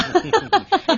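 quick amused chuckle; short laugh. Real, not acted. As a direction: chuckle at the tangent. Host laughs at the pickle tangent.

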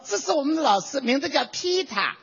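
Shanghai accent with Peter said flat as Pita. Shown as a demonstration. Imitating a Shanghai classmate introducing the teacher, Shanghai accent. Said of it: "上海人那个舌头是平的".

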